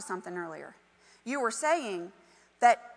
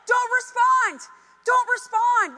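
emphatic; 11 semitones higher, 7 dB louder, slower than usual. Real, not acted. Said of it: "That's it".

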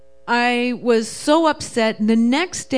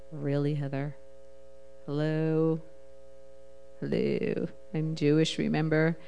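incredulous; 5 semitones lower, 7 dB quieter than usual. Retold or imitated. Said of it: "And I was like".

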